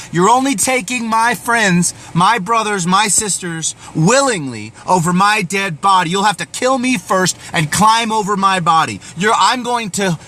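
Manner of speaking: a general on the hill, refusing to give up his men, in mock defiant yell; defiant battle cry. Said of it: "he screams in the face of the enemy".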